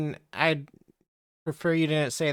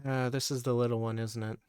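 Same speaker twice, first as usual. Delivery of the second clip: dopey cartoon bellow; 5 semitones lower, 6 dB quieter, faster than usual. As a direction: lower and dopier at the end. GM voices phone NPC.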